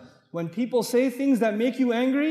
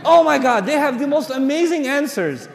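much louder, higher, laughing shout; laughing exclamation; 5 semitones higher, 8 dB louder than usual. Real, not acted. Marvelling to the crowd at girls' comebacks, loud laughing shout. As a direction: burst out laughing in disbelief.

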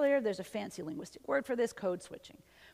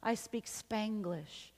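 sheepish confession; 5 dB quieter, much slower than usual. Retold or imitated. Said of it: "with their tail between their legs".

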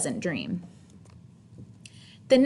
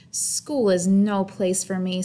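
glum; slower than usual. Acted. Sad child complaining.

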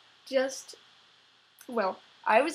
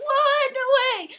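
retold shock; 12 semitones higher, 9 dB louder than usual. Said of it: "And I was like".

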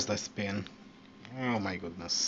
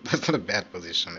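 laughing it out quickly, a bit louder; 6 dB louder, faster than usual. Real, not acted. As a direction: say it through real laughter. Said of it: "I'm actually laughing so crazy".

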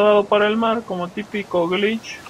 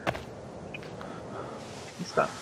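whisper; 16 dB quieter, much slower than usual. Real, not acted. Whispered aside.

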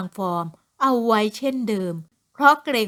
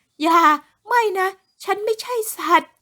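much higher, louder scream; screaming protest; 9 semitones higher, 4 dB louder than usual. Acted. Woman carried to the car by police, full scream. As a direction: scream at the top of your voice. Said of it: "ส่งเสียงร้องจนสุดเสียง".

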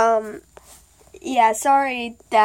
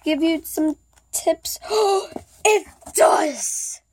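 toothache; 6 semitones higher than usual. Real, not acted. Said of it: "Sorry if I'm talking weird because my tooth".

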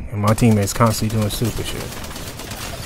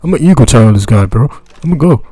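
loud, higher mock white-boy gamer voice; 4 semitones higher, 9 dB louder than usual. Mocking a cocky teammate who runs off, loud white boy voice. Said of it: "my white boy voice".

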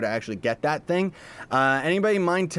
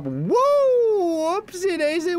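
high startled whoopsie; oops; 4 dB louder, much slower than usual. Real, not acted. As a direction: yelp out a sudden whoa.

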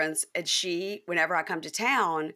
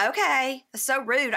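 louder, higher huffy reply; mock offended; 7 semitones higher, 4 dB louder, slower than usual. Mary Preston huffing at being told not to invite anyone. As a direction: play the friend a bit put out.

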